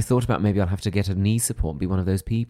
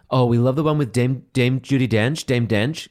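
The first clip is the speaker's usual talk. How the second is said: American fan voice. Retold or imitated. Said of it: "the other one they really liked was".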